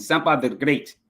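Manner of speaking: lightly imitated Zambian accent; put-on Zambian accent. Shown as a demonstration. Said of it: "I gotta do my accent".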